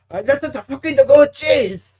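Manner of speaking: loud, high mock Asian-accent cheer; hammed-up Asian accent, shouted. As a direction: put on a caricatured Asian accent and yell. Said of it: "You like my Asian accent".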